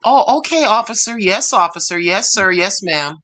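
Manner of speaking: meek respectful yes-sir voice; polite compliant. Shown as a demonstration. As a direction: sound humbly obedient to a cop. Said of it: "Just pretend".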